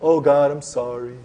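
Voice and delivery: mildly mocking, stretched-out sorry; a touch of put-on remorse; insincere apology. Preacher mimicking a false repenter before God, insincere apology. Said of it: "Repentance is not".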